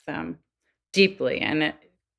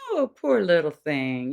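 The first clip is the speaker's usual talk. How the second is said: mock cooing sympathy. Shown as a demonstration. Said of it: "that's a very different tone".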